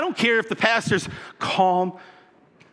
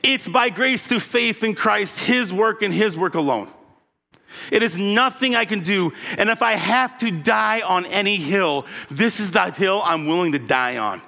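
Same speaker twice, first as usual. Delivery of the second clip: 1 fervent Paul. Acted. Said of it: "Paul is saying".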